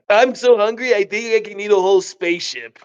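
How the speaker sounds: lightly voiced raspy hungry creature, quick; a hint of a high raspy voice. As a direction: rattle it off like a ravenous little alien. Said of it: "this high raspy voice".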